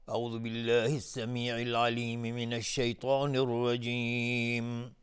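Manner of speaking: measured, slow Quranic opening; teacher opening the recitation slowly. Acted. Recites the isti'adha before reading.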